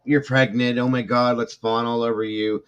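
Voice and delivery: parodying the fussing over her pregnancy, mocking gush. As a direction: ham up the fake excitement. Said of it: "used it to get the attention".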